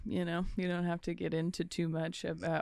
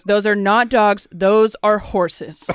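louder, slow, exasperated correction; louder and slow, spell it out; irritated kid; 7 dB louder, slower than usual. Retold or imitated. Irritated son correcting his dad, loud and slow. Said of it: "He gets so irritated with him".

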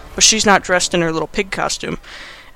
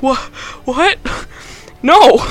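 stammered high question, then loud cry; hammed-up stunned denial, rising sharply; mock shocked disbelief; 6 semitones higher, 3 dB louder, slower than usual. Adam learns he should have escaped, mock shocked disbelief. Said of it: "And he's like".

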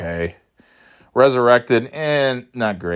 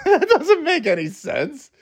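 laughing disbelief. Real, not acted. Laughing at the plot.

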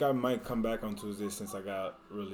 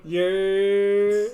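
loud, high cheer; excited cheer; 10 semitones higher, 12 dB louder than usual. Real, not acted. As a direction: cheer for the guest. Cheering the special guest.

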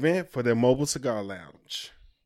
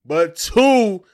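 hyped; 4 semitones higher, 5 dB louder than usual. Real, not acted. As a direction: build the hype, savouring each word. Hyping the band's Grammys.

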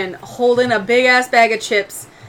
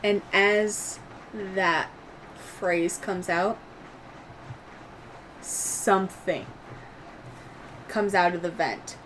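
game master narration; 4 dB quieter than usual. Acted. Game master describing dark tendrils at the vent, hushed suspense.

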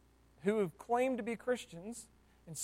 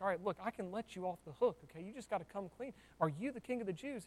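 Pilate bargaining; 7 dB quieter, faster than usual. Retold or imitated. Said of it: "And Pilate's like".

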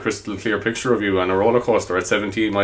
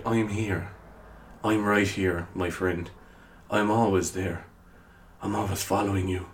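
creepy whisper; 9 dB quieter than usual. Pretend. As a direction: breathe it close like a lurking stalker. Creepy friend in your ear joke.

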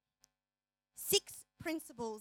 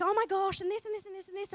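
mock gush; 6 semitones higher, 4 dB louder, faster than usual. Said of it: "she was like".

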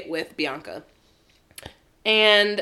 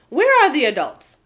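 incredulous; 3 semitones higher, 4 dB louder than usual. Real, not acted. Mock outrage at unsupervised kids.

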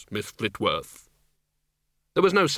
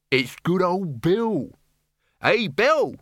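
cheery villager; 7 semitones higher, much slower than usual. Acted. Villagers greet.

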